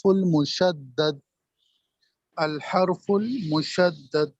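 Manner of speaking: الحرف المشدد said slowly, with the doubled d held; slow, careful read of الحرف المشدد; term spelled out. Shown as a demonstration. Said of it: "وہ کہلائے گا".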